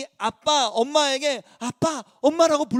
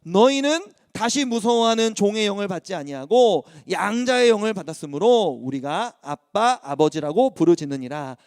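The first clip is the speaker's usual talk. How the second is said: solemn, steady reading of the verse; scripture reading; 3 semitones lower than usual. Shown as a demonstration. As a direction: read it aloud like a preacher to the church. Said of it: "한번 읽어볼게요".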